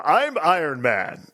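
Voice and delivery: slow, lightly mocked hero announcement; a hint of bad superhero voice; mock Iron Man. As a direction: draw it out as a hokey Iron Man.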